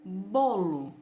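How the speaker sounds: "Bolo" with both syllables clearly sounded; two beats. Shown as a demonstration. Teacher recaps for pupils, "Bolo" said as two parts. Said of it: "eu falei duas vezes".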